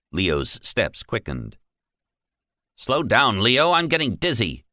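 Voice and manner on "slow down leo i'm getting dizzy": a touch of whiny irritation; mild grumbling at the pace; irritable complaint. Acted. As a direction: manager complaining to Leo as they hurry. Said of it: "complained irritably".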